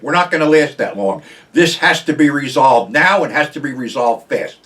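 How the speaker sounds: angry call to stand up and fight; pissed-off rant. Real, not acted. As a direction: demand an answer from America, fired up. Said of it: "I'm sounding pissed off".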